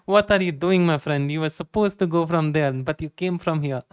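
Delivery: mock-indignant Arab gamer accent. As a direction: scold a teammate in a playful Arab accent. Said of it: "C S go Arab lobby".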